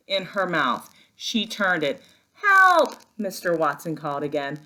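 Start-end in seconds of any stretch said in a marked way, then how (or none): 2.3-3.0 high, loud cry of help; shout for help. Acted. Mister Watson calling again for help, a high loud cry. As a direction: yell it out in panic.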